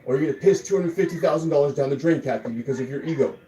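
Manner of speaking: loud, high, emphatic scolding; angry ultimatum. Real, not acted. Fed-up streamer warning Kathy over money and ego, angry ultimatum. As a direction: hit each word hard, fed up.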